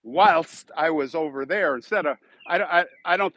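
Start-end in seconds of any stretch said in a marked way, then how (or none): 0.0-0.7 whilst with the -st ending sounded; British word form. Shown as a demonstration. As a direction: say whilst slowly as the English do. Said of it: "or you say".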